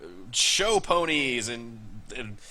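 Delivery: flustered rancher tripping over his words; sputtering. Acted. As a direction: splutter out the pedigree list in a huff. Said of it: "He seems to be, like, sputtering at this point".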